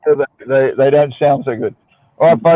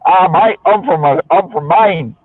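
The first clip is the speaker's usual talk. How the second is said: put-on Australian accent; 4 semitones higher, slower than usual. Mainer posing as an Australian to confuse everybody, Australian accent. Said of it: "change your accent to Australian".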